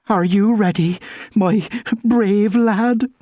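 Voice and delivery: slow, shaky worried aunt; quavering voice. Acted. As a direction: let the voice tremble, drawn out. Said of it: "in a quavering voice".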